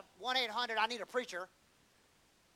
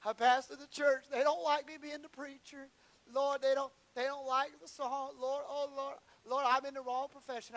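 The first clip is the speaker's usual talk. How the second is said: hammed-up pity-party wail to God, climbing high; David sulks to God in a pity party, mock whining; mock whining lament; 5 semitones higher than usual. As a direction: whine like a sulking preacher ready to quit. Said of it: "pity party and cried and said".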